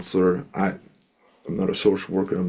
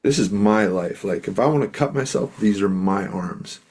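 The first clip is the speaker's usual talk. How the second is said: fired up; 3 dB louder than usual. Retold or imitated. Young man upset with his parents, mildly fired up. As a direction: imitate a worked-up friend defending himself. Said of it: "ooh, he was fired up".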